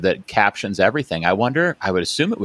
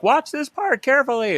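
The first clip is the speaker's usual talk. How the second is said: high-pitched mock call to the class; imitated teacher yell. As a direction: call out over a playing video, voice pitched way up. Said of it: "we would yell out".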